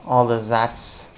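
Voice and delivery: mock French accent. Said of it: "sounds like ... French accent".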